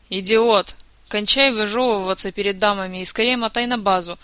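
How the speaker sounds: loud exasperated telling-off; acted irritated outburst; scolding. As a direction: scold him like an exasperated comrade. Kantor angrily scolds the bard.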